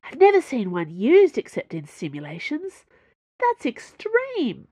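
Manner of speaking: gleeful fascination; fascinated. A narrator's reading. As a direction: marvel at it, stretching the last words. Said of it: "She leaned forward in fascination".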